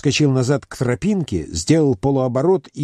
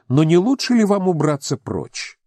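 high, scornful brush-off; mock him with cold disdain; scornful retort; 7 semitones higher than usual. Heroine tells the stranger to leave. (презрительная отповедь)

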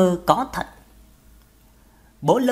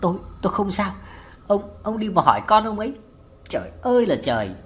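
halting, with repeated first words; narrated faltering, upset mother; broken speech. A narrator's reading. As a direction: stammer through it in distress. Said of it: "nói ngắt quáng".

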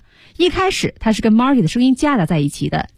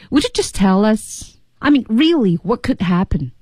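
pressing, impatient questioning, lifted on "really"; impatient and curious; 3 semitones higher than usual. Acted. Teacher acting the friend nagging Marty, impatient and curious. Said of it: "不耐烦".

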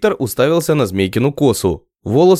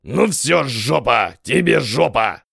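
stuck on a word; slower than usual. A narrator's reading. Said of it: "Костоправа как заклинило".

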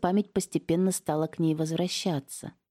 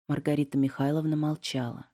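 ordinary delivery

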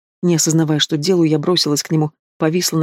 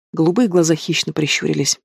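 plain reading voice

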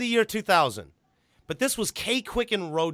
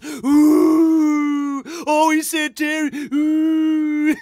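much higher, louder mock crowd oohing; crowd reaction; 9 semitones higher, 7 dB louder, much slower than usual. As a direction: ooh like a stunned arena. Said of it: "then the crowd goes".

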